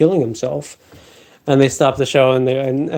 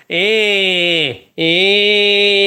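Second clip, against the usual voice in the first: easy eh grunts. Shown as a demonstration. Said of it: "No, you go".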